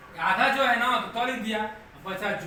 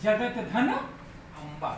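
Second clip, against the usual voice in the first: slow breakdown; much slower than usual. Shown as a demonstration. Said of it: "तो ये अ आ गया और अम्बा".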